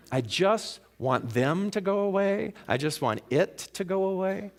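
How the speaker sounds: high-pitched, pleading complaint; mock exasperated plea. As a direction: voice an irritated person wishing it gone. Voicing irritated people's complaint.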